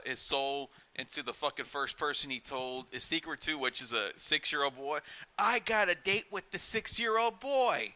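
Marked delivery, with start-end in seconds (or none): 5.4-7.9 lightly voiced doll threat.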